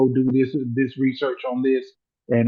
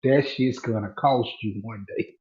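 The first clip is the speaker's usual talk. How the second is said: lower, slow, softer stern warning; boss's warning; 4 semitones lower, 3 dB quieter, slower than usual. Retold or imitated. The boss warns him about his mouth, low slow and stern. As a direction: hand down a quiet lesson, slow and low. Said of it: "he said".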